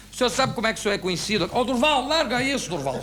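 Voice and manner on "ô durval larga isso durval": raised, high-pitched urging; imitated exasperated call; urgent pleading. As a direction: cut in, begging him to stop. Boss pleading with man to let go.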